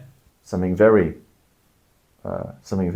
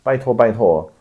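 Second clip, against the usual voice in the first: pleading candidate; 3 semitones higher than usual. Retold or imitated. Candidate at a temple pleads with voters, lightly imitated. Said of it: "they will hold their hands and will say".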